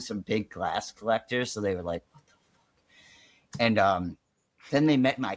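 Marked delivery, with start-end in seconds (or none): 2.1-3.6 shocked whisper. Retold or imitated. Family shocked at bong collection.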